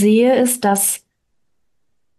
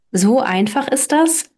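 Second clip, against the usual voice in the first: amazed; 3 semitones higher than usual. Acted. Hans asking Bertha if it is that simple, rising amazed. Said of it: "staunte Hans".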